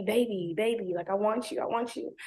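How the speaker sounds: soft imitated coaxing; lightly mocked clingy croon; mock sweet pleading. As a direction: coo it back softly. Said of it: "trying to be".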